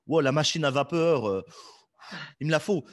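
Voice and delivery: gasp, must have it; excited viewer. Retold or imitated. Imitating a hooked téléachat viewer. (téléspectateur emballé)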